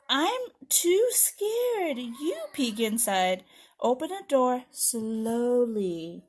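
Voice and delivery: slow, suspenseful read-aloud; children's story narration. Acted. Scared character has a friend peek inside, slow storytelling. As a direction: stretch it out for suspense.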